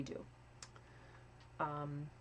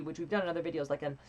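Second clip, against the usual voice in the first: ordinary talk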